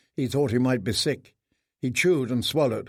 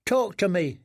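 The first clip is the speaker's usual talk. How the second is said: put-on boy's voice; 6 semitones higher than usual. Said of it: "said one of them".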